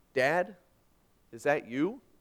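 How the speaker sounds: slow, awed, disbelieving, wondering amazement. A father recounts his youngest daughter speaking from behind a tree: retelling words of wonder. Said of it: "uttered in wonder, in amazement".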